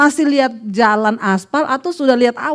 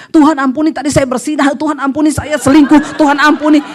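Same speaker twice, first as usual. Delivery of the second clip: mock pleading prayer; 5 dB louder than usual. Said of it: "terus ngomong".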